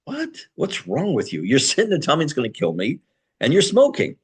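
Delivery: can't believe what you're seeing; stunned at a hypocrite, voice climbing; incredulous outburst. Retold or imitated. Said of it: "And you sit there like".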